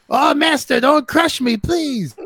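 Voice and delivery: high, pleading Gollum whine. Retold or imitated. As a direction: beg like a cowering Gollum. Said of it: "this fucking Gollum's down there".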